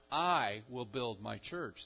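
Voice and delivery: "I" stretched out and set apart; stress on I. Shown as a demonstration. Preacher showing whose church it is, stressed "I". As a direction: lean slowly on "I", then carry on evenly. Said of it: "That's the emphasis".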